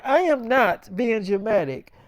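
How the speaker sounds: mildly mock-indignant denial; indignant retort. Sick wife retorting in argument.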